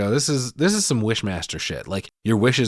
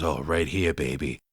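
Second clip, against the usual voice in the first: mock smooth lover; 7 semitones lower, 5 dB quieter than usual. Host voicing Mitch smooth.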